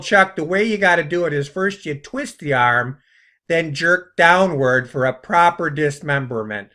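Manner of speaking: mock instructor in a Chicago accent. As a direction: coach Chuck with a put-on Chicago accent. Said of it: "that's my Chicago, uh, accent".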